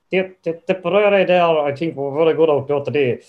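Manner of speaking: a first rough go at Loughnane, lightly voiced; half-formed Loughnane voice, not there yet; early Loughnane impression. Impressionist's early attempt at Loughnane, lightly done. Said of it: "Loughnane at the start was like".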